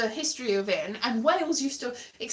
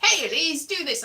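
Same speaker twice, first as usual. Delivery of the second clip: higher, pushy mock greeting; spam message voice; 4 semitones higher, 5 dB louder than usual. Spam message addressing her by name, mock-pushy call. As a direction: read it out like an attention-grabbing spam message. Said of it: "people send you spam messages".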